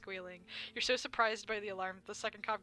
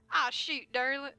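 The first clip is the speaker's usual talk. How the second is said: Blubs voice; 6 semitones higher, 9 dB louder, slower than usual. Acted. Blubs voice, loud.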